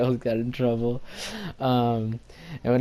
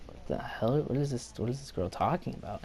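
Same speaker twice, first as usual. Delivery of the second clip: murmuring onlookers; 7 dB quieter than usual. Retold or imitated. Onlookers murmuring about the girl.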